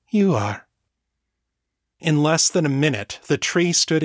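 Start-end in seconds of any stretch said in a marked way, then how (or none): 0.1-0.7 understated, assured motherly pride; proud. A narrator's reading. Mother credits her daughter for the miracle, proud. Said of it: "her voice full of pride".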